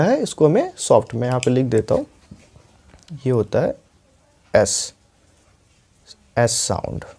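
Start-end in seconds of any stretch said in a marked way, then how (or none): 4.6-7.0 softer, lower, breathy एस; soft sound. Shown as a demonstration. Teacher softly demonstrates the soft sound. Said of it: "यानी कि soft sound".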